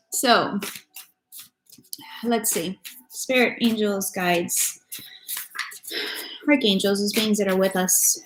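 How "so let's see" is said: normal talking voice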